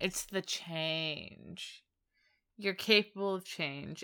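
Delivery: very sarcastic tone. Summing up an episode's message to another speaker: very sarcastic. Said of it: "I said that very sarcastically".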